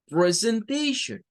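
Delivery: "Presentation" said slowly as pre-sen-TAY-shun; slow, careful "Presentation" ending in shun; common pronunciation. Shown as a demonstration. Teacher to students, slow careful demo of "Presentation". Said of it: "la pronunciación más común".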